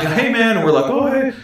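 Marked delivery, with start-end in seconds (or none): 0.0-0.6 mock-friendly greeting, lifted high; casual friendly greeting. Showing how the stranger did not greet them, friendly high-pitched hello. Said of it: "it wasn't like". 0.9-1.3 light, high mock-friendly hello; friendly reply. Showing how the friends would have answered him, friendly high hello.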